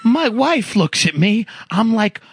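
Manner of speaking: imitated Long Island Italian-American coworker; mock Italian-American guy telling his troubles. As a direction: put on an Italian-American accent, incredulous complaint. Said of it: "this guy who talked like this, Italian guy".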